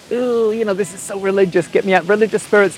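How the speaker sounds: softly acted-out "get me out" panic; imitating his younger self's squeamish aside; mock uneasy recoil. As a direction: recoil in hushed, lifted-pitch distaste. Acting out his recoil at the church.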